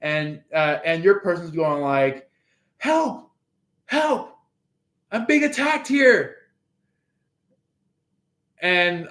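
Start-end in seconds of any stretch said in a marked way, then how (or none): 2.8-6.4 high, fast panicky calls for help; mock cry for help. You pretending to be attacked, mock high panic. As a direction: squeal for help like a cartoon victim. Person being jumped cries out.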